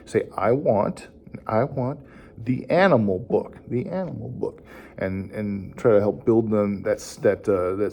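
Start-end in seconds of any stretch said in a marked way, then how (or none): 0.4-4.6 put-on short phrases with pauses, for a child to repeat; broken into chunks. Shown as a demonstration. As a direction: model "I want", then "the animal book". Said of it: "you can break it down".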